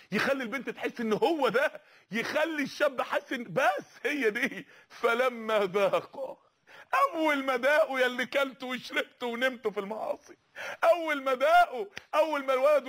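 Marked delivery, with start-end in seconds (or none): 4.9-6.4 stretched slowly with a rise; slow drawn quote. Shown as a demonstration. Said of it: "drawn out quote". 10.8-12.9 forceful. Shown as a demonstration. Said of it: "repeated with force".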